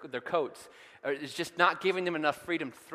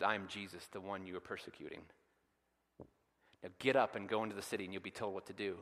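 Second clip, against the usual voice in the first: Jesus speaking softly; 4 semitones lower, 5 dB quieter than usual. Pretend. Voice of Jesus to Saul.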